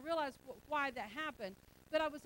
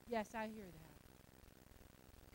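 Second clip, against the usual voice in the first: much softer and very slow, mocking a kid who won't move; lazy drawling child; 11 semitones lower, 14 dB quieter, much slower than usual. Pastor mocks a lazy child answering mom, slow soft drawl. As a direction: drag it out like a child who has no intention of obeying.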